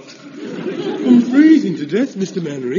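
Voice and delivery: whining. Acted. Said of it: "stop whining".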